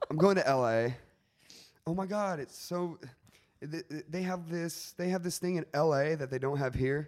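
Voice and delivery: affected, self-important tone. Joking about people who call it L A: imitating pretentious people. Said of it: "You have to say it like that".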